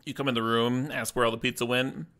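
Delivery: talking through a mouthful; words round a bite of food; mouth full. Real, not acted. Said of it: "I'm just talking with my mouth full".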